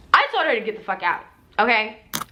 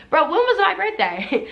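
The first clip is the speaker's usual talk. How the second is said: sharp higher demand; pointed question; 7 semitones higher than usual. Retold or imitated. To the friend who lied, sharp higher demand. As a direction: pin her down on the date. Confronting friend about birthday.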